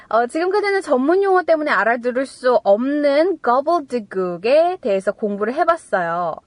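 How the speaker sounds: normal talking voice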